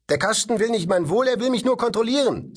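high, loud frustrated protest; boy angrily protesting the robot to father, high and loud; angry boy. Acted. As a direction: lash out at the machine. Boy's angry outburst.

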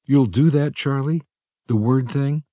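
high, relieved disbelief; a young woman asking, amazed and relieved. A narrator's reading. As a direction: ask it as if hardly daring to hope. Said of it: "amazed and relieved".

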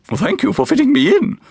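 a formal guest thanking the museum keeper; deep, formal tone. A narrator's reading. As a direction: stiff and formal, hurried. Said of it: "in a deep, formal tone".

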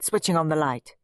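usual speaking voice

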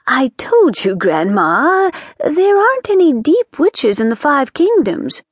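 a touch of a fussy witch scolding grandma; flustered witch. Acted. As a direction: hush grandma's slip nervously. Missus Cringe correcting grandma.

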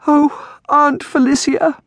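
high, drawn-out mock sob; sobbing girl. A narrator's reading. Distraught girl turns to her aunt for comfort, sobbing. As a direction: wail it in a high, girlish voice. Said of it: "Amelia sobbed".

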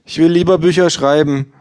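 hohes, lautes gleichgültiges Ja; Buchhändlerin. Acted. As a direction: ein schrilles Ja ohne Interesse. Bookseller voiced high. (Verkäuferin antwortet hoch und laut gleichgültig)

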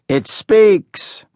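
put-on a crowing, jeering boy. A narrator's reading. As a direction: crow at the runt like he's a freak. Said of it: "Someone crowed".

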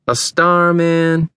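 high, incredulous complaint; disgusted disbelief. A narrator's reading. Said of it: "Vern looked at Josh in disgust".

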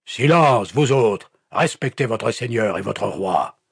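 high, loud order easing slightly; commanding shout. A narrator's reading. Pastor silencing the villagers, commanding shout. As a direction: call the room to order.

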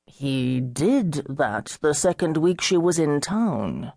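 gentle. Acted. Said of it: "his voice still gentle, as though he were talking to an invalid".

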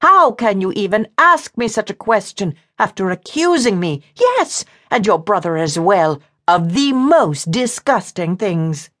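high-pitched, outraged woman's voice; near fury. A narrator's reading. Woman reproaches her accuser, in high near fury. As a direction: fling the question back indignantly, pitched high. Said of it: "of near fury".

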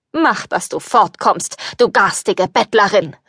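mild scornful shout. Acted. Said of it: "rief er".

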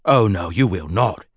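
flat, final refusal; no argument allowed; firm. Acted. Grundy overruling his wife, firm. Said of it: "a tone which brooked no argument".

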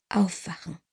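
soft whispered wake-up call. A narrator's reading. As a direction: whisper it close to his ear. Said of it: "flüsterte ich".

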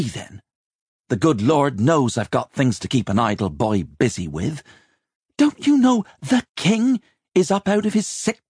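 put-on high, indignant older woman in full tirade; exasperated dragon of a mistress; scolding head chambermaid. A narrator's reading. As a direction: berate an idle boy, pitch climbing as you go. Rachel scolds Simon.

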